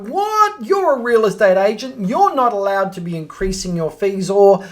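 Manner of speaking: indignant caller. Retold or imitated. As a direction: play the outraged owner who thinks fees are negotiable. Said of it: "that's their attitude when they're calling you".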